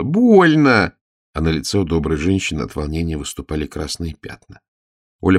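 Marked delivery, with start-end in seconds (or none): 0.0-0.9 high, loud yelp of complaint; sharp cry. Acted. Girl yelping while her hair is curled, high and loud. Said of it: "она дёргалась и вскрикивала".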